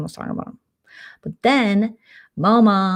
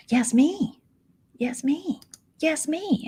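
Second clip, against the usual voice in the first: mock disbelief; 10 semitones higher, much slower than usual. Mimicking own astonishment at being named.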